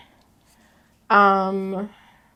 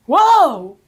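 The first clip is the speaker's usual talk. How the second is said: TikTok impression; 3 semitones higher, 8 dB louder than usual. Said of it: "You ever seen that TikTok?".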